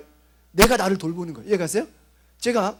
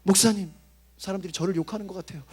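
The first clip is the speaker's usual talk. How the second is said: insecure youth. Retold or imitated. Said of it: "청년들 같은 경우는".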